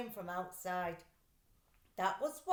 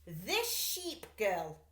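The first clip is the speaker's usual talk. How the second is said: slow, wary drawl; suspicious thief; much slower than usual. Acted. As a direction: eye her suspiciously. Luther eyes the painting.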